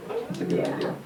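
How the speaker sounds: sly high whisper to the crowd; whispered aside. Real, not acted. Comedian whispering his own punchline to the audience, sly whisper. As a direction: lean in and whisper it.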